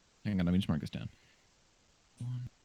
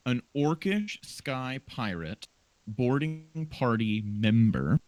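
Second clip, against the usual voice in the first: slow, deliberate word-by-word repeat; drawn-out disbelieving repetition; incredulous echo; 2 semitones higher, much slower than usual. Real, not acted. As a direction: spell out each word slowly, amused at how specific it is. DM echoes oddly specific answer.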